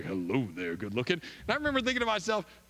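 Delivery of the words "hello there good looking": very deep, very low bass voice. Retelling a man greeting Wanda in the church foyer: deep bass voice. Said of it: "he had this deep bass voice like".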